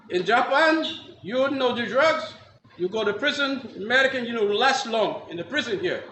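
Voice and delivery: imitated Japanese judge, phrase by phrase. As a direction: lay down the law in broken, Japanese-accented English. Judge lectures him, broken English.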